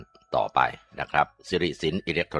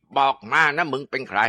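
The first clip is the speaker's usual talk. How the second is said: angry demand; 7 semitones higher than usual. Acted. Exorcist interrogating the ghost.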